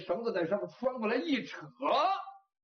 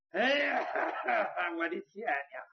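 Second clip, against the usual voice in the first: pained wailing. Acted. Man laid down after hanging laments, wailing in pain. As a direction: moan it out in hammed-up agony.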